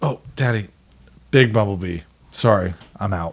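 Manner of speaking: eager delivery. Retelling a son fleeing from a bumblebee: imitating Elliot. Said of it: "he's like".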